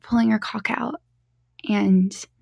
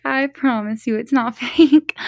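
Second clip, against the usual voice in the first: slow, giggly reassurance; 3 dB louder, slower than usual. Real, not acted. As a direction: break into a real giggle mid-sentence. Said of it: "I get really giggly".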